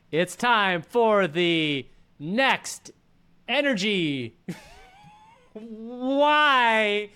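high, laughing shouted intro. Real, not acted. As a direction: yell the intro while cracking up. Segment intro falls apart.

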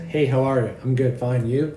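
low, automatic greeting; canned robotic small talk. Acted. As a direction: rattle it off on autopilot.

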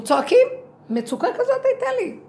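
sudden high, loud cry of distress. Retold or imitated. Woman recalling her distress at the sea, crying out loud.

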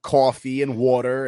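slow New York vowels on coffee and water; New York accent. Shown as a demonstration. Host explaining accents, saying words in New York accent. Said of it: "T J and I have New York accents".

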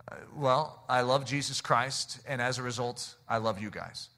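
gentle reply. Retold or imitated. Answers crews as gentle missionary.

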